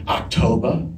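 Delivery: lightly put-on Southern accent; Blanche Devereaux. Stand-in delivers the next line, still in a hint of Southern accent. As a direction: say it as a Southern belle, final syllable softened. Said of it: "I couldn't lose the accent".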